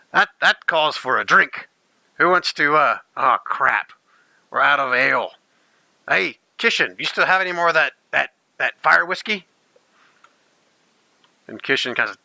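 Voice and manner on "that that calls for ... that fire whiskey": boisterous dwarf. Acted. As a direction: cheer like a tipsy dwarf. GM voices dwarf Olimar celebrating.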